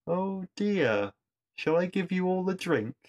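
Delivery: high, mock-sweet cartoonish villain voice. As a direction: purr it like a gloating pantomime baddie. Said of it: "in a huge display of cartoonish villainy, he replies".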